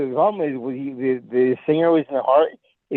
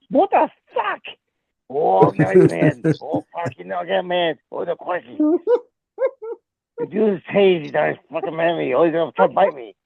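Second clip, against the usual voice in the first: hammed-up Australian wildlife commentary; Steve Irwin. Warning viewers about the mad dude, mock Australian commentary. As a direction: narrate a wild creature in mock Australian. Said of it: "I'm Australian too".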